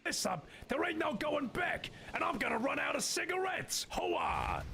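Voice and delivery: very high, put-on fairy voice. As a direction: call it out as a high-pitched fairy. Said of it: "how do you like the voice for the fairy?".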